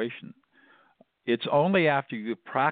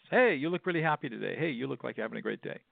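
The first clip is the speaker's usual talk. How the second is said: higher opening, then quicker and softer; throwaway remark; 4 semitones higher, 3 dB quieter, faster than usual. Shown as a demonstration. Practicing on somebody else, throwaway small talk. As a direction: toss off a casual friendly observation. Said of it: "like this, just really throw away".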